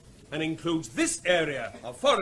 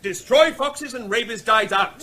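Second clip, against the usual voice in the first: raised voice over hecklers; 5 dB louder than usual. Acted. Officer talks over hecklers.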